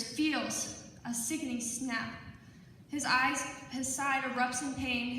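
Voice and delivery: measured, deliberate poetry reading with dramatic pauses; poem recital. Acted. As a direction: recite it phrase by phrase, letting each image land. Reads own poem aloud.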